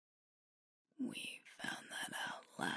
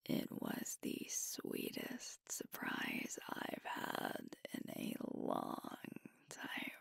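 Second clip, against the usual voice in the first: tender thanks. Acted. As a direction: thank a partner sincerely, almost whispering. Heartfelt thanks to partner.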